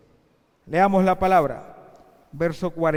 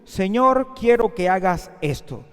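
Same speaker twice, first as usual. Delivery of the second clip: demanding attitude; 4 dB louder than usual. Acted. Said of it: "fueron con una actitud".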